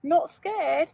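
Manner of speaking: a big cat gently surprised; purring tiger. Acted. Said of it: "the tiger purrs".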